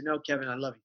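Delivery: softly reassuring himself; quiet, understated self-reassurance; gentle self-correction. Retold or imitated. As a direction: answer the inner critic softly. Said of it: "And I would say".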